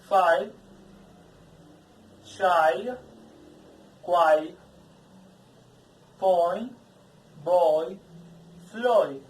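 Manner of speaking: loud, careful drill of each word, gliding the vowels; diphthong word drill. Shown as a demonstration. Teacher leading a loud diphthong drill for the class. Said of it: "that is the idea for the sounds".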